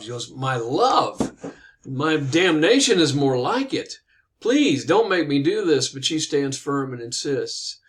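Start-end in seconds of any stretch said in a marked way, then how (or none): 0.3-5.9 dismayed protest. Retold or imitated. Knight protests the forced marriage.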